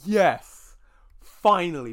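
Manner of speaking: loud eager cry of relief; eager yes. Retold or imitated. Fan hearing a sequel is coming, loud and eager. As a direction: shout yes like a fan finally heard.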